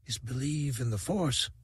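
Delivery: soft breathy near-whisper of a dying lover. A narrator's reading. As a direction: barely voice it, fading fast. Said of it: "she whispered".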